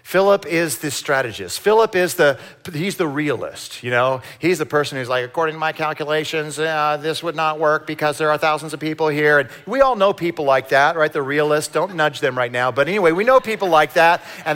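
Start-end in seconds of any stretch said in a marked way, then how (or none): 5.2-9.4 robot voice. Retold or imitated. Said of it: "I sounded like a robot".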